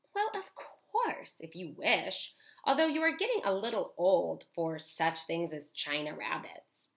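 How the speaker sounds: rich mother voice. Acted. Mother voiced in read story.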